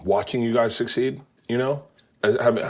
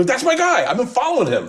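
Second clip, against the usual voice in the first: proud brag; 14 semitones higher, 3 dB louder than usual. Retold or imitated. Fan brags about director.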